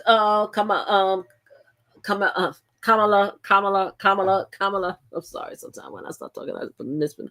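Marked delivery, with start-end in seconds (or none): 2.8-5.0 Kamala repeated carefully, KAH-ma-la; drilling Kamala to get it right; practising the name. Real, not acted. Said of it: "I have a slight mispronunciation on it".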